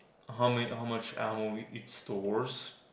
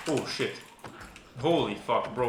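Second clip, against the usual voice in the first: startled. Real, not acted. Startled by a jump scare.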